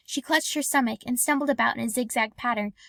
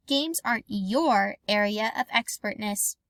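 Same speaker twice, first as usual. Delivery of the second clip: angry; 2 semitones lower than usual. Acted. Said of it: "pointed out angrily".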